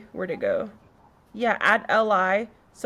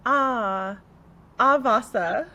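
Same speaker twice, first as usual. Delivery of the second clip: sighing ah; slower than usual. Shown as a demonstration. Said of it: "what do I get? I get".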